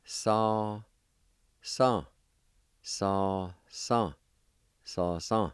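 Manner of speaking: Sa said short and clear, over and over; repeated model word. Shown as a demonstration. Teacher modelling the word for goose. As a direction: repeat Sa cleanly for learners. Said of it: "it's pronounced like this".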